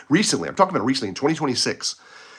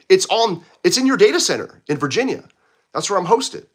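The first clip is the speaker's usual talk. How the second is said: higher, louder, exasperated explaining; exasperated retort; 5 semitones higher, 3 dB louder than usual. Retold or imitated. Arguing with the support guy, exasperated and louder. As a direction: push back hard, fed up. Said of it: "I'm like".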